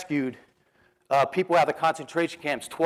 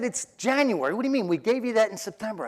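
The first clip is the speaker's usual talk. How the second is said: much higher-pitched, exasperated imitation; mock incredulity; 7 semitones higher, faster than usual. Office ladies to student who lost his combination, mock incredulity. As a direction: voice the baffled office staff, pitched right up.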